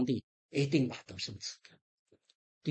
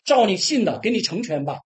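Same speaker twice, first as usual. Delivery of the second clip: louder, higher ringing blessing; solemn proclamation; 4 semitones higher, 7 dB louder than usual. Pretend. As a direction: proclaim it with authority. Jesus pronounces healing. (高声庄严地宣告)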